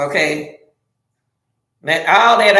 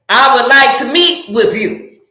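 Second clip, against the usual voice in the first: direct, plainly stated request; firm example of keeping it real; straight talk; 2 semitones higher than usual. Shown as a demonstration. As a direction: say it straight, no hedging. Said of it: "Keep it real with me and say".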